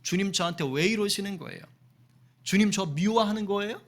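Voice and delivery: acted grumbling prayer, rising at the end; mildly quarrelsome plea; petulant complaining. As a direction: complain to God like someone feeling unloved. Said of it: "투정해요".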